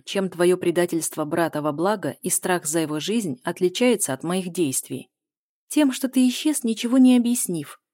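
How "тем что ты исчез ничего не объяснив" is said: higher, louder reproach; accusing outburst. A narrator's reading. Heroine accusing her lover of vanishing, higher and louder. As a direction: throw the blame at him.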